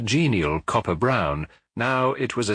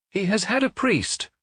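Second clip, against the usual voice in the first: touched; 12 semitones higher than usual. A narrator's reading. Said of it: "not untouched".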